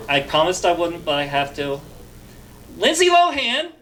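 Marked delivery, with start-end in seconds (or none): 2.8-3.7 gleeful laughing name drop. Real, not acted. Gleeful naming of favorite target.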